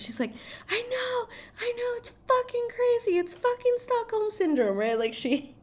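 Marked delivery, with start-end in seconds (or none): 0.7-4.8 very high squealed imitation; hammed-up, high-pitched exclaiming at normal volume; mock freak-out. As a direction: squeak it out as an overwrought friend confessing. Acts heroine confiding in best friend.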